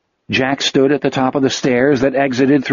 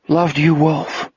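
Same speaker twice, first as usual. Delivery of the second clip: tearful mutter; 4 semitones higher, slower than usual. A narrator's reading. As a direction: mutter it through tears. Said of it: "Jack muttered".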